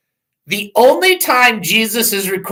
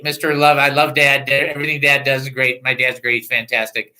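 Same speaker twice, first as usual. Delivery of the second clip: doting dog; 4 semitones lower than usual. Retold or imitated. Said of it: "he's like Mister Loving".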